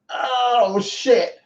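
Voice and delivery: high, drawn-out "oh" of struggle; retold strained groan. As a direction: groan as if the weight is too heavy. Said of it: "I was like".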